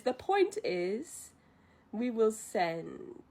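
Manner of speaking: slow, drawn-out imitation of a leader; stretched-out retold decree; deliberate pronouncement. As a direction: spell it out slowly, with authority. Leader lays down the decision.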